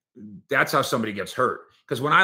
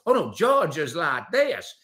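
slow, drawn-out Georgia drawl; Marsha's Georgia accent; 2 semitones higher, 4 dB louder, slower than usual. Retold or imitated. Marsha showing how Georgia differs, imitated Georgia accent. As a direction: imitate someone demonstrating Georgia speech, slowly. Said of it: "And then she'll go".

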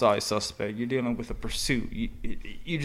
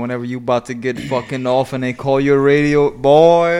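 getting louder and louder, fed up; exasperated loud rant; 12 dB louder than usual. Real, not acted. Partner griping about the end-of-shift call, building to a shout. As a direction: vent it like the late call just came in.

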